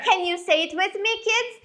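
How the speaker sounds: put-on bright singsong kids show host; broad singsong kids theatre. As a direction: play it big for small children.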